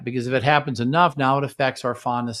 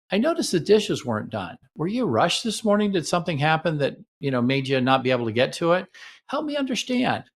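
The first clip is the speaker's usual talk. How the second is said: curious gentle question; 3 semitones higher than usual. Shown as a demonstration. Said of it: "So you might say it this way".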